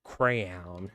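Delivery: "Crayon" in two syllables, ending like "town"; unfamiliar pronunciation. Shown as a demonstration. Streamer trying out an odd-sounding word, "Crayon" said cray-own. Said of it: "It still sounds weird to me".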